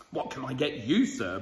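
a hint of a booming butcher; mild boom. Butcher greeting a customer, a mild boom. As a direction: boom it lightly. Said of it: "boomed the butcher".

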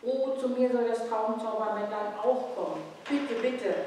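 put-on high, pleading little boy's voice; begging child. A narrator's reading. Little Gabriel begs his mother, with a high, pleading voice. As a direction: plead like a small boy close to tears. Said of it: "bettelte der kleine Gabriel".

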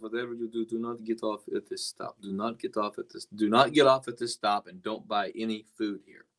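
lightly imitated thick Russian accent. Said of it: "in that really thick Russian accent".

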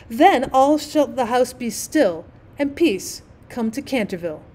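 measured, solemn rhyme reading; slow, deliberate prophecy verse; verse recitation. A narrator's reading. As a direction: recite it line by line with weight. Girl recites the painted prophecy.

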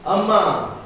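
long high wail of a name; a beggar wailing at the gate; wailing call. A narrator's reading. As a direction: cry out to the house like a beggar. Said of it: "came a wail from the gate".

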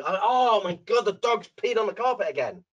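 fed-up morning moan; hammed-up grumble; negative moaning. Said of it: "It's very negative".

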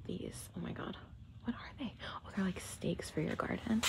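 soft, near-whispered wondering aloud; talking low. Real, not acted. Shopper puzzling over garden stakes in a quiet store, hushed. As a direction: murmur under your breath while browsing. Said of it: "I'm talking kinda low 'cause the store is quiet".

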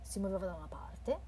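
soft eerie whisper; hushed storytelling voice; whispered narration. A narrator's reading.

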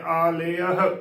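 ਆਲਯਹ as long aa, then le-ah; correct pronunciation. Shown as a demonstration. Teacher reviews the word for listeners, careful pronunciation. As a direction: say ਆਲਯਹ as aa-le-ah with a breath of h. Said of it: "ਆਲਯਹ ਉਚਾਰਨ ਕਰਨਾ ਹੈ".

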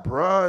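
"bruh" said plainly with a clear vowel; older pronunciation. Shown as a demonstration. Preacher showing how people don't talk, plain "bruh". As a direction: say "bruh" as the rejected version. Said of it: "it's bruh".

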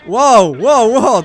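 loud, high burst of amazement; excited wow. Real, not acted. Gamer reacting to a great move, excited. Reacts to something good in game.

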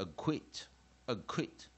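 "acquit" with a light a and a punched quit; second-syllable stress. Shown as a demonstration. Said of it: "重音在第二个音节".

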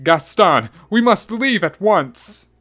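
high, loud urgent cry; deeply shocked. A narrator's reading. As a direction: call out in alarm to get away. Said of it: "Deeply shocked".

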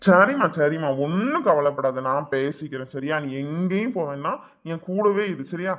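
earnest comforting; reassuring. Acted. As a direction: soothe a crying wife, easing after a firm start. Husband reassures his crying wife.

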